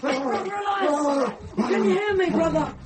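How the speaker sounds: high, loud desperate call; calling out urgently. Acted. Boy calls after the fleeing monk, loud and desperate. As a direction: call after him as he slips away.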